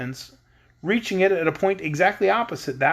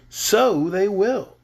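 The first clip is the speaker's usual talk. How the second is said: chuckling gleefully; 3 semitones higher, much slower than usual. Acted. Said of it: "chuckling gleefully".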